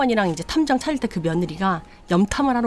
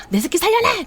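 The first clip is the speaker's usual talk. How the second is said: high, loud wailing demand; anguished scream; 11 semitones higher, 4 dB louder than usual. Retold or imitated. Grieving mother screaming at the daughter-in-law, anguished. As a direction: scream it out in grief.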